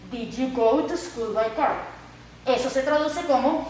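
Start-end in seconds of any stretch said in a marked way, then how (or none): 0.1-1.7 slow, careful repeat of the question. Shown as a demonstration. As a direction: say the question again for the students.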